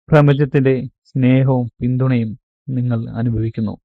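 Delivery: measured meditation guide with long pauses; guided meditation. Acted. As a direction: guide them into calm, phrase by phrase, stretching key words. (ധ്യാനത്തിലേക്ക് നയിക്കുന്ന ശാന്തമായ ശൈലി, ഇടവേളകളോടെ)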